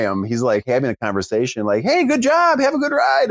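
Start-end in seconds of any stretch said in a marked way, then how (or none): 1.8-3.3 tiny squeaky high voice; mouse voice. Retold or imitated. Kid voiced passing adults.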